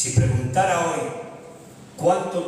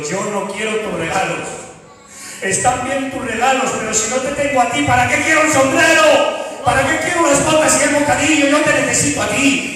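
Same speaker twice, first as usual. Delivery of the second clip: put-on higher, louder pleading cry of an abandoned boy; 7 semitones higher, 6 dB louder than usual. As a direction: cry out for his father, begging. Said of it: "empezó a gritar diciendo".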